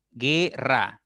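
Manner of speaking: "guerra" in two parts, gue-rra, U silent; syllable demo. Shown as a demonstration. Teacher shows students it is no diphthong, syllable by syllable. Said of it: "no es diptongo".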